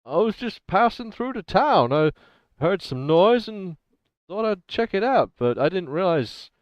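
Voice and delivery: put-on lightly American-accented drifter. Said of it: "he says in a very American accent".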